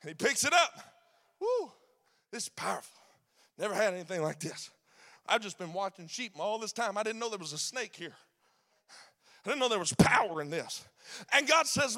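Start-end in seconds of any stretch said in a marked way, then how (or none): 1.4-10.8 softer, lower, hushed amazement; lightly voiced Moses, marvelling to himself; understated wonder, quiet and low; a hint of awed Moses.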